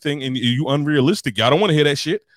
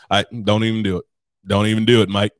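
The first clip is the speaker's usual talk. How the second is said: lower-pitched mock Aussie bartender; bad Australian accent; 4 semitones lower than usual. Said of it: "my shitty Australian accent".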